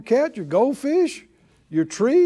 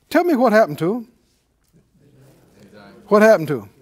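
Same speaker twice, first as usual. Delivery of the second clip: calling out; 5 dB louder, much faster than usual. Real, not acted. Calls to congregation.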